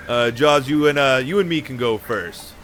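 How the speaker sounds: lightly voiced goblin; a hint of a scratchy goblin. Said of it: "Time to put on my goblin voice".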